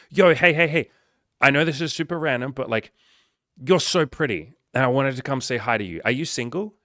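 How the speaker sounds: eager pickup opener. Pretend. Guy walking up to a pretty woman, loud eager opener. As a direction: hype yourself up to greet her.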